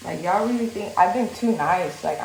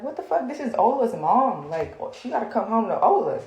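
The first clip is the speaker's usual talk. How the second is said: shocked outburst; 3 semitones higher than usual. Retold or imitated. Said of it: "That's when I was like".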